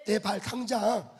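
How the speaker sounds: ordinary delivery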